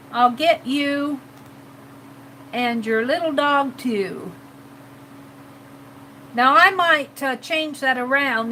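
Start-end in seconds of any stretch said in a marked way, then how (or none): 0.1-4.3 witch threat. Acted. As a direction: draw it out like a wicked witch's threat. Redoing the witch line in character.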